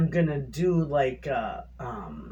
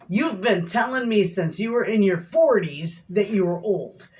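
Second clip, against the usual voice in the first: higher, mock-scolding tease; retold teasing; 4 semitones higher, 3 dB louder than usual. Wife teasing husband about being old, mild mock scolding. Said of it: "I was teasing my husband".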